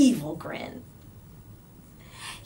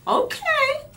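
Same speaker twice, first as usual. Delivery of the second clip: bewildered okay; 5 dB louder than usual. A narrator's reading. Eddie bewildered.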